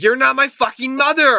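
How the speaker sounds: high-pitched acted retort; hammed-up indignant snap; mock angry outburst. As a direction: imitate a movie character lashing out. Acted quarrel with the mother.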